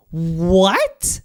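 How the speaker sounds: a hushed, airy what; stunned whisper. Real, not acted. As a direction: breathe the word out in stunned disbelief. Disbelief at ranking.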